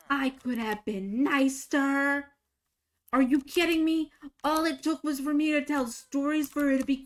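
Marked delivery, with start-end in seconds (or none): 0.1-2.3 regretful. Real, not acted.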